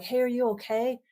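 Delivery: high, concerned parent asking; worried parent. Retold or imitated. Parent asking teen in a high, concerned voice. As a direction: check in on your teen like a parent. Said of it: "our parents are like".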